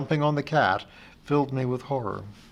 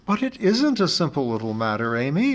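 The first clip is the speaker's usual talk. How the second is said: wailed; 3 semitones higher, 4 dB louder than usual. Acted. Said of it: "I wailed".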